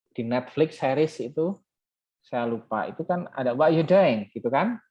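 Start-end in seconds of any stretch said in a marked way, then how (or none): 3.5-4.3 imitated Midlands accent, punched out; Brummie accent. Shown as a demonstration. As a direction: try a Brummie-style run-together question. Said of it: "ada ini di Midland, Broomy". (logat Midlands Inggris tiruan)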